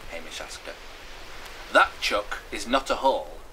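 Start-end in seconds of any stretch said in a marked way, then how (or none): 1.7-3.4 louder, firm correction; blunt, emphatic verdict. Acted. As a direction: put him straight firmly. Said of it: "she answered firmly".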